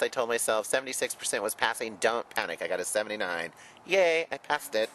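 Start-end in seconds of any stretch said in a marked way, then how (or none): 3.9-4.9 high, loud little yay of relief; excited cheer. Real, not acted. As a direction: celebrate the passing score. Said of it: "cheering passing grade".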